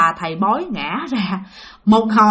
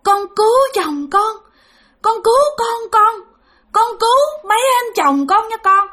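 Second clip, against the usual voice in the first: pleading spirit; 11 semitones higher than usual. Retold or imitated. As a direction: imitate a suffering elder imploring. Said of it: "Nói vậy đó".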